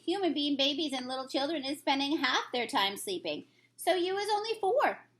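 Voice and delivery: a lightly voiced kindly giant; friendly old giant, lightly put on; BFG voice. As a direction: read the giant's lines with gentle storybook character.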